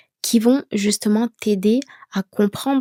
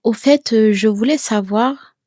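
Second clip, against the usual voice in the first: louder, halting with a filler euh; hesitant roundabout ask; 5 dB louder than usual. Shown as a demonstration. Teacher shows viewers the clumsy way to ask, hesitantly. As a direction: stumble into the request apologetically. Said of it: "Au lieu de dire".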